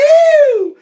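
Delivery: very high, loud whoop; cowboy-style yelp of joy. Retold or imitated. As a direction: let out a wild party whoop. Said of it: "é de lei começar os gritos".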